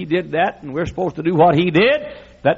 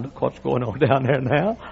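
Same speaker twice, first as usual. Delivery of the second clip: Peter pointing; 3 semitones lower, 3 dB quieter than usual. Retold or imitated. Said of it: "Peter said to John".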